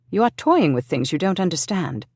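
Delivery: tense, pressed and firm; said tightly. Acted. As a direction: hold back the anger, tight. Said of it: "he said tightly".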